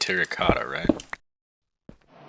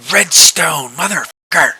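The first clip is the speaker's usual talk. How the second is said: frustrated outburst; 7 semitones higher, 8 dB louder than usual. Real, not acted.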